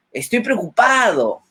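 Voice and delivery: mismatched cheerful tone, as if happy; said cheerfully. Shown as a demonstration. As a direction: say the worry as if nothing were wrong. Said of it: "y coloco una cara feliz". (dicho con tono alegre, sin preocupación)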